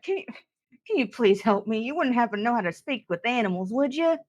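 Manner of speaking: lightly voiced sweet character; polite plea. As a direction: ask a stranger for help, quick and hopeful. Character politely begs stranger for help.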